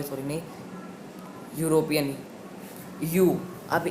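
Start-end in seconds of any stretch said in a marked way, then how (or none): 1.6-2.2 यूरोपियन said as yoo-ro-pi-an, starting with a Y sound; teacher says यूरोपियन with the yoo sound; Hindi-English pron. Shown as a demonstration. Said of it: "ये अपन तो नहीं बोलेंगे यूरोपियन को".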